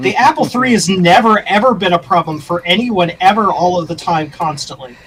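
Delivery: seething, heavily sarcastic, overstated delivery. Answering a remark about fiddly parts for the apple three, seething sarcasm. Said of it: "the seething sarcasm in that statement".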